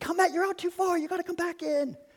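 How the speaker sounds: mock, very high-pitched screaming call. Retelling parents calling their kid back from the water: imitating parents screaming. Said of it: "just screaming".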